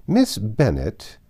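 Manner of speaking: slow, stern address; angry tone. Acted. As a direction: drag the name out in anger. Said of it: "in an angry tone".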